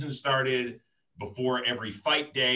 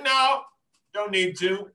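much higher, loud, hammed-up no; mock dismissive builder; 8 semitones higher, 5 dB louder, slower than usual. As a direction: wave it off in a high put-on voice. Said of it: "It's like".

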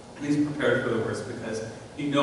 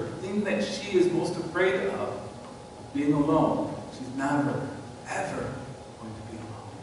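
soft and intimate; 5 dB quieter than usual. Real, not acted. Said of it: "preacher softens to near whisper".

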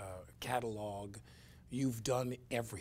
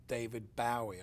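imitating Ricky Gervais; 2 semitones higher, 4 dB louder than usual. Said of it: "he'd say".

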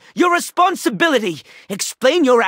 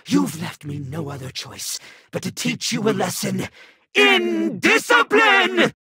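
stern threat. Acted. Villain threatens the hero.

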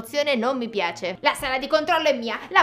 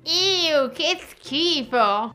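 disgusted drawl; 3 semitones higher, much slower than usual. Acted. Disgust at love.

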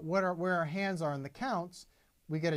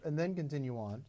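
mock stumble; 2 semitones higher than usual. Shown as a demonstration. Teacher mocks a wrong, halting accent. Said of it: "I don't go".

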